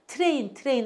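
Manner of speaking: quick Korean-style "teu-re-in" for 트레인; 트레인 with t and r unblended; wrong Koreanized pronunciation. Shown as a demonstration. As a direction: say 트레인 twice with a hard separate "teu". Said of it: "하시면 안 돼요".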